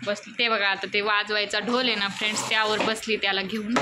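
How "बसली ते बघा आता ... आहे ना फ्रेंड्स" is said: ordinary talk, nothing marked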